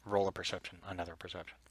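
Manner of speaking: whispering. Acted. GM whispering narration.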